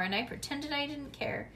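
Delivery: ordinary delivery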